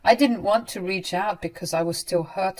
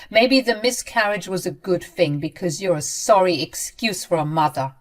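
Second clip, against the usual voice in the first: loud, cold insults; hurtful; 4 dB louder than usual. Acted. Ramona leaving with hurtful parting words, loud. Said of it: "some hurtful words".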